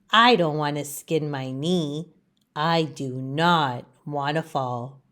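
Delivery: low, soft fretful leaf; worried little leaf. Acted. Leaf tells friend Laurel his fears, low and soft. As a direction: fret quietly about falling. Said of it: "Leaf says to his friend Laurel".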